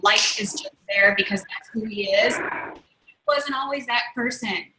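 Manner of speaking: hushed aside. Real, not acted. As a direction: drop to a breathy hush as if sharing a secret. Intimate aside about David's growth.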